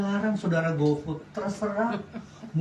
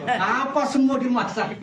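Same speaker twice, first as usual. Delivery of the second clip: laughing; 6 semitones higher, slower than usual. Real, not acted. Joking instruction to congregation.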